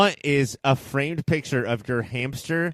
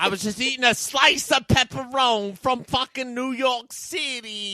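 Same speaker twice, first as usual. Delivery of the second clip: higher New York guy voice; Louie; 6 semitones higher than usual. Acted. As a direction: play a brash New York pizza guy. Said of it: "my voice is so much different than Louie".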